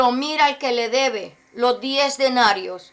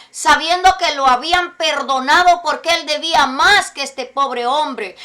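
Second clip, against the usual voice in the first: louder, building sermon fervour; rising preaching; 4 dB louder than usual. Acted. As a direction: preach it harder and harder. (predicando con fuerza creciente)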